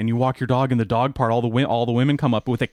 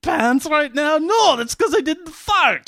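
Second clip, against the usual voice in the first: a high, loud, hammed-up Scottish brogue; Scottish accent; 13 semitones higher, 6 dB louder than usual. Host doing a loud Scottish accent for the show. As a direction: bellow it like a mock Scotsman. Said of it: "next time you do a Scottish accent".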